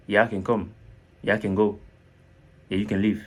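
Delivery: "can" said as French "ken", short; light quick "ken" for "can". Shown as a demonstration. Teacher likening English to French name, "can" said like Ken. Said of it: "vous voyez ça un peu comme K E N".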